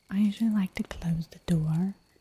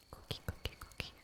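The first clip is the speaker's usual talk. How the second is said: much softer, repeated whisper of "cookie"; whispered cookie trigger; 18 dB quieter, faster than usual. Shown as a demonstration. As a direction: breathe "cookie, cookie, cookie" as a gentle ASMR trigger. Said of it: "saying cookie".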